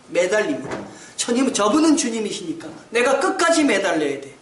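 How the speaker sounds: normal talking voice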